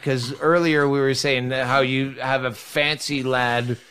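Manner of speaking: ordinary talk, nothing marked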